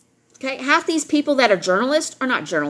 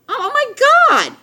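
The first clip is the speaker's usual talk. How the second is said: slow, high, louder exasperated groan of disbelief; 13 semitones higher, 5 dB louder than usual. Real, not acted. The speaker to her viewers, marvelling at gullible people, exasperated. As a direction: drag it out, fed up.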